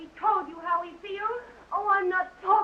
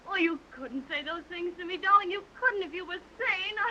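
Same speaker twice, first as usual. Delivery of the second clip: ordinary delivery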